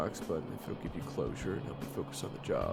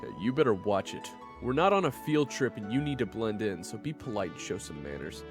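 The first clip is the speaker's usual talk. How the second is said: louder, scolding lecture; stern warning; 5 dB louder than usual. Acted. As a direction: lay down the rules to a troublemaker. Scolding the reckless companion.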